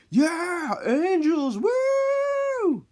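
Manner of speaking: loud, high victory holler; triumphant whoop. Retold or imitated. Players cheering after pelting the boys, loud high whooping. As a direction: crow it out, stretching the final whoop.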